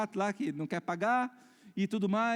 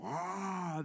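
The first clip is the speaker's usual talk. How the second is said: imitated fire blast; 7 dB quieter than usual. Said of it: "tava cuspindo fogo pelos olhos".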